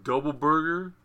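deadpan, just stating the order; matter-of-fact. Retold or imitated. Arn Anderson telling Conrad his burger order, matter-of-fact. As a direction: say it like it's obvious. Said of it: "he said it very matter-of-factly".

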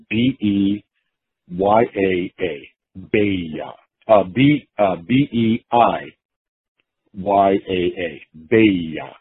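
letters one by one leading to Beiya; spelled-out Japanese reading. Shown as a demonstration. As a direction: spell slowly, then say Beiya as "bay-ya". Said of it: "that's how you have to say it".

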